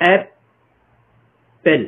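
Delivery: ایپل drawn out very slowly, p held with no vowel; slow demo word. Shown as a demonstration. Teacher modelling apple for students, very slow. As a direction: stretch ایپل out syllable by syllable. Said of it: "کیسے پڑھتے ہیں؟".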